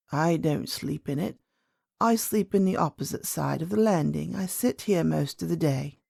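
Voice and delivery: lightly voiced old lady, calm; an old great-grandmother, pitched slightly down; a hint of an aged woman's voice. Old lady answers princess.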